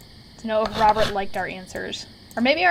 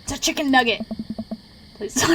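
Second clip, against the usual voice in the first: lightly voiced mentor, a touch louder; Robert voice; 2 semitones higher, 3 dB louder, faster than usual. Mentor names the player's nugget carving, light voice. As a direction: announce the carving like a teacher. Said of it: "my Robert voice".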